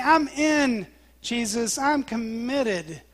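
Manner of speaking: slow down firmly on COMMITTED; committed declaration. Retold or imitated. Peter pledging himself to Jesus, committed and emphatic. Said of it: "he's, he's committed".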